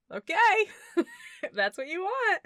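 put-on sullen kid. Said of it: "And the kid was like".

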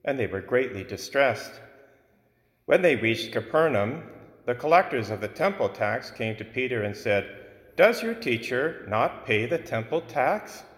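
solemn liturgical reading aloud; Gospel proclamation. Acted.

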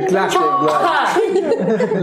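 long high drawn-out elk call; elk bugle. Pretend. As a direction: bellow it out slowly like an elk. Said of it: "Make an elk noise, please".

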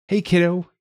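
high, cheery beaming greeting. A narrator's reading. Dad arriving with lunch greets his kid, beaming. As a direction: greet them with an audible beam. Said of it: "he said, beaming".

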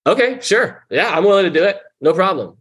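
high, overly willing okay sure; mock eager agreement. Agreeing to sponsor's odd request, high mock-eager compliance. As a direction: sound eager to please. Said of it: "I'm like".

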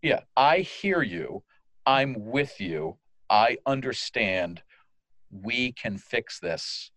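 slow, calm reassurance to an upset caller; reassuring agent. Pretend. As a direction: soothe them, take your time.

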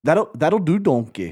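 lightly voiced Scottish ogre; a hint of Shrek with a Scottish lilt. Quoting Shrek to the co-host, a lightly Scottish ogre voice. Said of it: "Almost a Shrek type feel".

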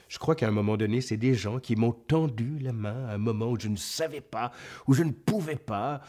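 grand, earnest philosophical monologue; Otis from Astérix. Pretend. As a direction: recite it like a solemn sage. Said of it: "Moi, je vous répondrais".

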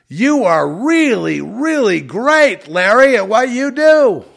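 drip with fake worship; mock adoration. Sarcastic fawning over Larry Fink.

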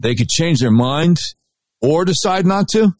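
mocking disbelief. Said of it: "Wait a minute".

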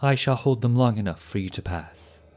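loud, high vow called to companions; urgent cry. A narrator's reading. Knight staying behind to hold off enemy, cried out. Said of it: "he cried".

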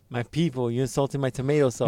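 mock Italian accent. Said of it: "stereotypical Italian accent".

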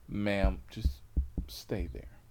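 low, understated command; restrained cop. Retold or imitated. Officer telling frantic passenger to stay, low and quiet. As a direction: keep the order soft and controlled.

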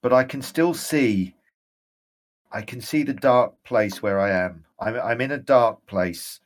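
a ghost seeing his dark prison again; ghostly general, rising urgency. Acted. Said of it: "and he shakes his head".

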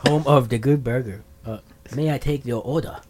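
put-on lightly accented impersonation; a hint of a martial arts star; mild put-on accent; Bruce Lee. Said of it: "You're gonna do Bruce Lee".

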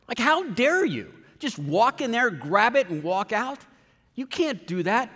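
high, outraged scolding; indignant yell. Retold or imitated. Scolding a shoplifter outside the store, high and outraged. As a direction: call him out, high and indignant. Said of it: "those words that I yelled at that guy".

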